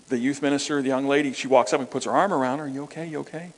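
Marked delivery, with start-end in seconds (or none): 2.7-3.5 gentle concern. Retold or imitated. Youth pastor comforts weeping girl.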